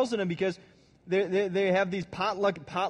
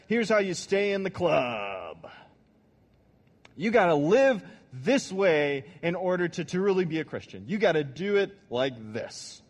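louder, hectoring rule-giver; bullhorn preacher; 4 dB louder than usual. Retold or imitated. Preacher mimicking a bullhorn guy lecturing passersby, louder. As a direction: lay down the rules like a street preacher. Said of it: "This is the bullhorn guy".

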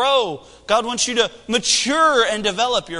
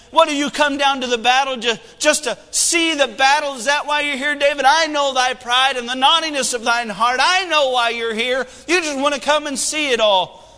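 put-on indignant older brother rebuke, raised and louder; Eliab scolding David; 5 semitones higher, 4 dB louder than usual. Eldest brother mocking David at the battlefield, scornful. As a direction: sneer it down at the kid brother.

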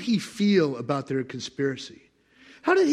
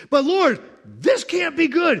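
worried believer; anxious protest; 9 semitones higher, 5 dB louder than usual. Pretend. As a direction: plead with God. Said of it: "arguing with God".

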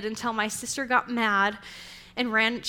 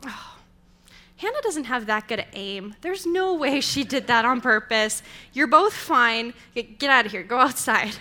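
put-on dismissive mom shooing the kids out, louder at the end; amused mom; 5 dB louder than usual. Mom sending squabbling kids outside, firm and louder. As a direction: brush them off like an unbothered mother. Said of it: "she looks at us and goes".

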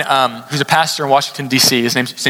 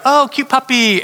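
put-on much higher, gushing girlish coo; girls cooing at a puppy; 10 semitones higher than usual. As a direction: coo over the puppy in a high voice. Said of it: "the girls would be like".

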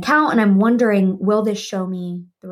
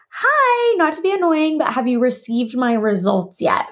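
over-polite asking; 4 semitones higher than usual. Retold or imitated. Retold over-polite message to coordinator.

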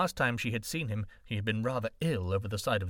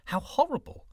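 shocked; 13 semitones higher, 3 dB louder than usual. A narrator's reading. White snake's shocked thought.

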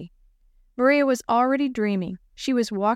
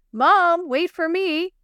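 raised, higher call after the car; 8 semitones higher, 5 dB louder, slower than usual. Acted. Girl chasing parents to car, calling out. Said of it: "Maria called".

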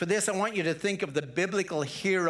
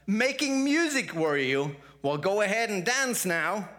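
mocking ants; 4 semitones higher than usual. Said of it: "they cried".

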